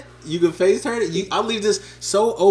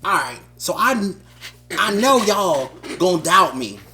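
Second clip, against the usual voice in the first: fiery, preachy rapper-style promo, building in spurts; boastful campaign rant in a lightly voiced impression of a rapper; a rapper's promo. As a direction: sell yourself as a famous rapper to the crowd. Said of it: "Because I tried to be Kanye with it".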